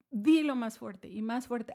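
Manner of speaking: mock urging, rising in force; building urging. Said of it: "hasta el punto en que lo gritó".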